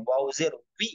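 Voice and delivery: "উই" with lips rounded and pressed. Shown as a demonstration. Teacher demonstrating waw with zer, "উই" through rounded lips. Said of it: "ঠোঁটটা গোল হবে".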